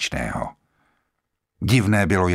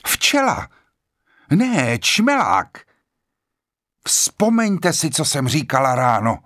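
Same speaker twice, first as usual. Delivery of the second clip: excited cry; 7 semitones higher than usual. A narrator's reading. Vera spots a bee at the window, crying out high. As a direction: cry out high, stretching the words. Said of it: "vykřikla Vera".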